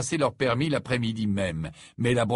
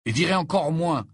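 loud, high, emphatic assertion; resolute; 8 semitones higher, 5 dB louder than usual. A narrator's reading. Ron refusing to go to the burial, resolute. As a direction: state it with full resolve. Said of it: "d'un ton résolu".

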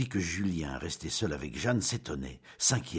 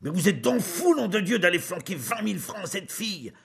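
much higher, louder furious cry; angry shout; 13 semitones higher, 5 dB louder than usual. Acted. Julien shouting at his parents-in-law, furious. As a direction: yell it at them in outrage. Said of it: "il cria vers ses beaux-parents".

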